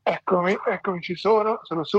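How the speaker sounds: strained, upside down in a handstand; talking upside down. Real, not acted. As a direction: speak while holding a handstand. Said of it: "parlare mentre sono in verticale non è facilissimo".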